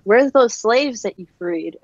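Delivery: mildly sassy mock question; imagine a lightly sassy challenge. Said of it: "if she wants to be really sassy".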